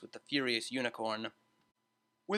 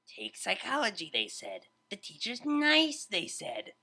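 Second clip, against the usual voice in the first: muttered; 6 semitones higher than usual. A narrator's reading. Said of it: "muttered Vinyl".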